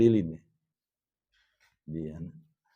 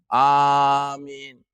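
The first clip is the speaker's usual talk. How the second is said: loud amin. Shown as a demonstration. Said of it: "langsung suara keras".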